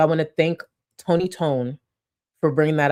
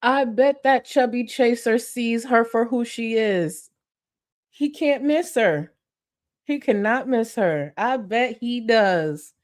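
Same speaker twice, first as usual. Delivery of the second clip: higher, slow sarcastic taunt; mocking jeer; 6 semitones higher, slower than usual. Real, not acted. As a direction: drag it out in a high sneer. Mocking the girl's boyfriend.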